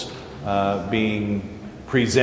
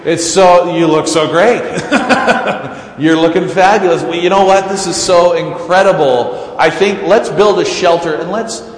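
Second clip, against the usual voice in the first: gushing Peter; 2 semitones higher, 3 dB louder than usual. Retold or imitated. Peter gushing to Jesus on the mountain, giddy and laughing. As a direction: bubble over with star-struck glee, half laughing. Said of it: "Peter goes over and he's like".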